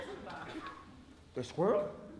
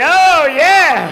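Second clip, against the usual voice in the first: put-on smug boyfriend; 8 semitones higher, 14 dB louder than usual. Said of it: "He said".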